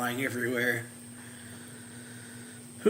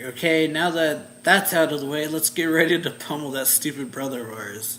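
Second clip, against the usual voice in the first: eager battle cry; 4 semitones higher, 7 dB louder than usual. Retold or imitated. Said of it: "it's like".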